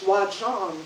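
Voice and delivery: put-on a lightly done Georgia accent, rising at the end. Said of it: "in his Georgia accent".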